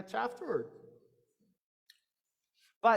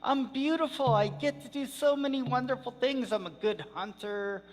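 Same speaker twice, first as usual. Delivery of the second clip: high, loud bragging coyote; boastful coyote; 4 semitones higher, 4 dB louder than usual. Acted. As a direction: strut and brag like a vain coyote. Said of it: "he'd say".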